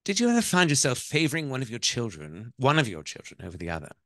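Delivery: put-on wife's voice in an English accent. Wife asks mother-in-law about a favorite child, English accent. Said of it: "I'm gonna do the ... the accent".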